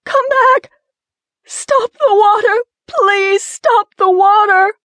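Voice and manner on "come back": high, loud, frantic plea; desperate cry. Acted. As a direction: scream after him as he leaves. Woman calls after departing man.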